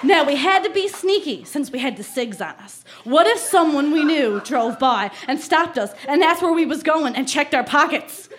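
put-on light Newfie accent reading a diary; Newfoundland accent. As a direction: lean lightly into a Newfoundland small-town accent. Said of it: "I really have to put on the accent".

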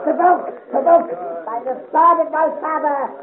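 loud, offended repeat of provoked; indignant outburst. Acted. Artillery officer furious at the cavalry captain's warning. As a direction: bristle with outrage.

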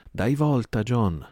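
high, loud pleading cry; frightened plea. Acted. Merry begging Silver to give in, frightened loud plea. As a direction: beg him to stop, scared.

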